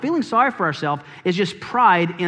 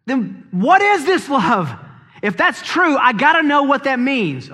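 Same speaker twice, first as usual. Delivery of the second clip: imitated eager listener; 5 semitones higher than usual. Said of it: "you're going".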